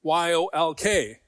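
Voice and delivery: letters "Y O L K" spelled one by one, slow; spelled out slowly. Shown as a demonstration. Preacher to congregation contrasting spellings, slow letters. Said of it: "I always thought of yoke".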